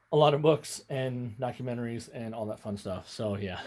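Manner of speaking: breathless talking; out of breath. Real, not acted. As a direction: talk while short of breath. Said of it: "Out of breath".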